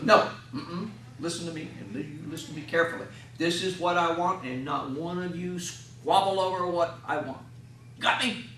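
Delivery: a hint of a firm grandpa; lightly voiced, insistent and steady; stern talk. Grandpa insisting the family follow his wishes, mildly stern. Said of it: "That's really the stern talk".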